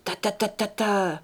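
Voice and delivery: doux et caressant; caressing voice. Acted. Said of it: "d'une voix caressante".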